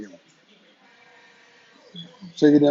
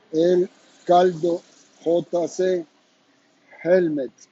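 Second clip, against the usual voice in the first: "El Caldo J C Helmets" said slowly, each letter set apart; slow, higher brand name read for viewers to write down; slow careful spelling; 3 semitones higher, slower than usual. Shown as a demonstration. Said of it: "La palabra helmet".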